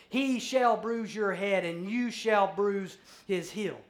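God declaring judgment on the serpent; solemn pronouncement. Acted. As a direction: pronounce the curse with weight.

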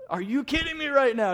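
high, loud disbelief; furious at the driver's denial; indignant outburst. Retold or imitated. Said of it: "I'm like".

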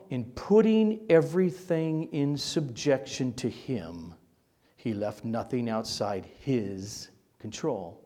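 deliberate scripture reading, setting off each phrase; measured read-aloud with weighted pauses; slow careful reading. Real, not acted. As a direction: read the verse slowly, phrase by phrase. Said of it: "Let me read it again slowly".

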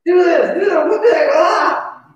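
loud, high angry barking; barking orders. Retold or imitated. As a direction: bark orders at the family. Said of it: "I'm just barking at everybody".

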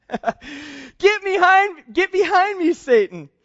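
a commanding rebuke that hammers "behind"; forceful rebuke. Acted. Jesus turning on Peter, a loud commanding rebuke.

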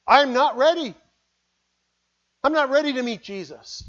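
high, loud cry of alarm; a soul crying that it is not ready; panicked cry. Acted. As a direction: cry out, suddenly caught unprepared. Unprepared soul hears the trumpet.

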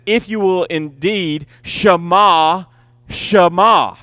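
second Shema leaned on and falling; double emphasis. Shown as a demonstration. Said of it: "for added extra emphasis".

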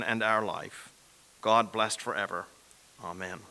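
measured, reverent prayer voice. Real, not acted. Leads a collect prayer.

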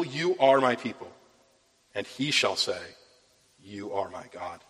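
measured, solemn Bible reading; scripture reading. Acted. Pastor reading Hosea to the congregation, measured and solemn. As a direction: read the prophecy with weight to the congregation. Preacher reads Hosea aloud.

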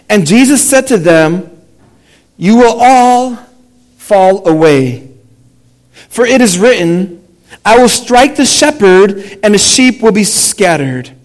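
measured public Bible reading with pauses; scripture reading. A narrator's reading. Pastor reading Mark to the congregation, measured scripture reading. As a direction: read it out deliberately, phrase by phrase.

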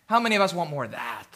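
low, soft and quick rhetorical question; quiet question. Real, not acted. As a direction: ask the congregation softly, almost in passing. First asking, repeated louder right after.

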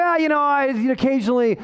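breezy shrug-it-off imitation; casual mock excuse-making; mock indifference. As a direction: make excuses as if it hardly matters. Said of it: "Paul isn't indifferent about his own sin".

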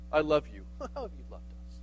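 God's line said low, then a laugh and a soft scoffing reply; laughing mock exchange. Pastor lightly mocks Israel answering God, laughing. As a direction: laugh off the reply as if it's absurd.

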